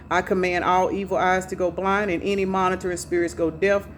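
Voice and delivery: brisk, steady prayer of protection; opening prayer. Acted. Reader thanking the Holy Spirit and guides, brisk prayer. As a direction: recite it as a ritual invocation, fast.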